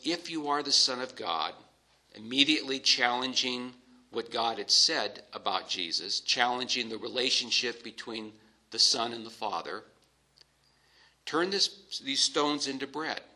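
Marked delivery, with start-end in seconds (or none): 0.0-1.5 a hint of a smooth, inviting tempter; soft welcoming devil. Preacher voicing the devil softly welcoming Jesus, mildly coaxing. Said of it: "very soft, very welcoming". 11.3-13.2 higher, sweetly coaxing devil; seductive tempter. Acted. Devil tempting hungry Jesus in the wilderness, higher and coaxing. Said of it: "very soft, very welcoming".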